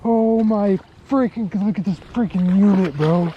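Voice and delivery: overjoyed at the catch, voice up; thrilled. Real, not acted. Angler landing a huge bass, thrilled shout.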